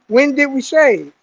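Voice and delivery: measured imitation of a sergeant; mildly stern inspection question; stern sergeant's question. Sergeant inspecting a recruit's face, mildly stern.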